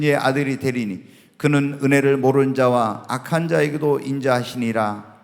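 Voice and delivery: low, even recitation of a Bible verse; scripture reading. Acted. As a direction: start strong and read the verse out to the congregation. Reads Bible verses aloud to congregation.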